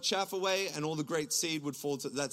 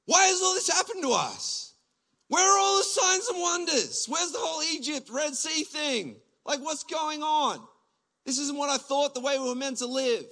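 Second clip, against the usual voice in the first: high, loud complaining outcry; frustrated Gideon; 10 semitones higher, 5 dB louder than usual. Retold or imitated. Gideon to the angel, high and loud in frustration. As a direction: demand answers in exasperated disbelief, pitched up. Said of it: "he's frustrated".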